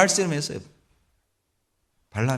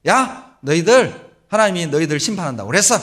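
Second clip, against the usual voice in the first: careless preaching; 5 dB louder than usual. Retold or imitated. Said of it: "막 성의 없이 전도를 했어요".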